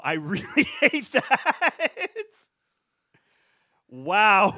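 high, loud, slow laughing squeal; mock high laughing repeat. Repeating her own complaint in a high laughing voice. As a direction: squeal the line back through laughter.

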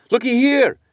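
high, urgent call; excited call. A narrator's reading. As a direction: point and call out. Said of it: "said Queequeg".

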